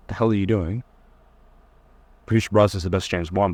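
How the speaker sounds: ordinary delivery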